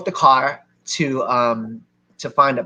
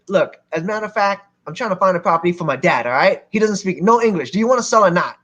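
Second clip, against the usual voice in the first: irritated, higher-pitched retort; angry; 4 semitones higher than usual. Retold or imitated. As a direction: retell putting a doubter straight, testily. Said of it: "I was angry again".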